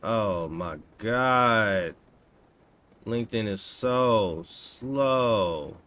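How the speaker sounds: loud, drawn-out exasperation; exasperated. Real, not acted. Streamer groaning that LinkedIn is so slow, exasperated. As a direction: drag the words out, loud and fed up.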